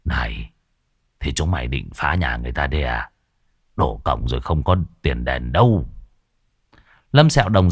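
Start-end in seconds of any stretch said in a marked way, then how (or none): 0.0-5.8 frightened warning. Acted. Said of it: "kinh hãi".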